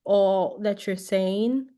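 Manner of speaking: slowed down for the mic. Shown as a demonstration. Teacher shows the class slow dictation, slowed down. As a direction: speak slowly so the phone catches it. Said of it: "you do have to speak a little slow".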